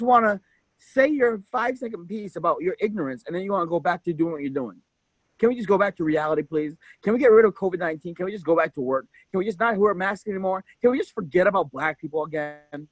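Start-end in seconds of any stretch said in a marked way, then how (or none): 5.4-12.9 fast, dismissive mock pleading; mocking the ignorant. Host mocking people who ignore racism, fast and dismissive. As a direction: rattle off their lazy wishes in mock whine. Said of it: "That's literally what they're thinking".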